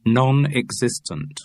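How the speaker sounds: slow, rhythmic list entry; measured headword in a recited list; catalogue rhythm. A narrator's reading. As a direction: read it off like a catalogue. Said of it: "You're getting a rhythm to the words".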